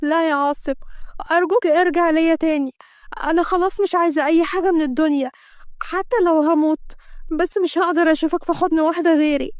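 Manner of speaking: a touch of a sick wife crying on the phone; mild crying plea. Acted. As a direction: beg him back through mild tears. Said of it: "هديل وهي بتعيط".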